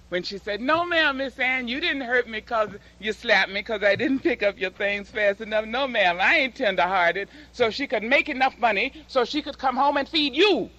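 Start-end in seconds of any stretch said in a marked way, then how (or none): 0.6-7.3 higher, pinched deferential pleading to Miss Ann; servile maid. Retold or imitated. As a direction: play a maid swallowing her pain. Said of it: "woman's throat must have closed".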